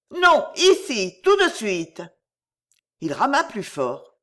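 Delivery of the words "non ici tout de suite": high, loud, drawn-out refusal; urgent demand. A narrator's reading. Girl orders the rower to land now, urgent demand. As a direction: insist in rising alarm.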